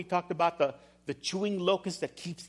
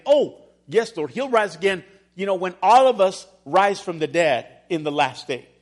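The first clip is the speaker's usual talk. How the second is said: dismissive Martha; 8 dB louder than usual. Retold or imitated. Martha brushing Jesus off, acted.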